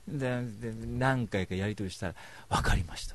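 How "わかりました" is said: whispered shy consent; hushed mock whisper. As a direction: breathe it out like a shy girl. Girl's shy reply quoted.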